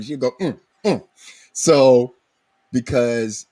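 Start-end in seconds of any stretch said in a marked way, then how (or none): 0.4-1.0 high, short double "mm" of disapproval; disgusted "mm". Retold or imitated. Host shows what mama will go, disgusted high grunt. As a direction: imitate mama's high-pitched disgusted hum. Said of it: "just disgusted with that".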